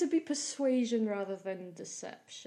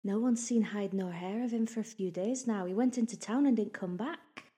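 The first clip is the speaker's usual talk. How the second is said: lightly voiced local gossip; juicy gossip; 3 dB louder than usual. Gossip telling visitors about a missing man, lightly gossipy. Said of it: "leans in like she's got some juicy gossip".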